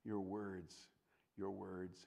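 soft, low whisper; whispered emphasis; hushed urgency. Real, not acted. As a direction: lean in and whisper the warning. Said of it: "emphatic hushed warning".

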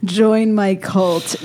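slow, drawn-out cult leader line; mock cult leader, slow invitation. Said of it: "I sound like a cult leader".

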